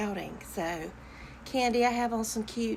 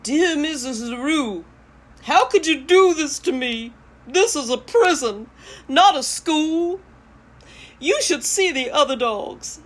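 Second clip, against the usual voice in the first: higher, louder put-upon dog voice; lightly voiced indignant dog; dog Ike writing home; 4 semitones higher, 5 dB louder than usual. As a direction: plead like a dog who feels wronged. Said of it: "in the voice of a dog".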